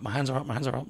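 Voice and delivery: calm an armed officer down; hands-up plea. Retold or imitated. Narrator to officer with hand on gun, soft plea.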